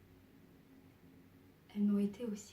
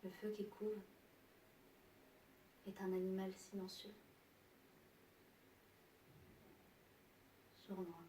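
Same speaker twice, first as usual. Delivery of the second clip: hushed menace; 14 dB quieter than usual. Acted. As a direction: let it sink softly, word by word. Describes fire lurking silently. (tout bas, sournois)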